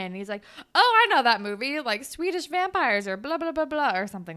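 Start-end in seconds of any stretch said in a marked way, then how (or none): 0.7-4.0 loud, raised mock enthusiasm; imitated excited boy; excited recognition. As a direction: blurt it like an eager movie fan. Acting boy recognizing her favorite movie.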